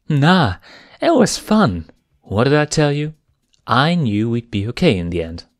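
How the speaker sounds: breathless glee after the tumble; gleeful. Acted. Gleeful after rolling downhill.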